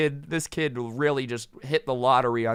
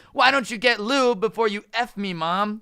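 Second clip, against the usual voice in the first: Cartman impression; 7 semitones higher, 3 dB louder than usual. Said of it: "he's like".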